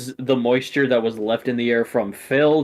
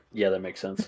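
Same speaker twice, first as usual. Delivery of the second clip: quiet villain aside; 4 semitones lower, 8 dB quieter than usual. Acted. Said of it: "looks down the stairs and goes".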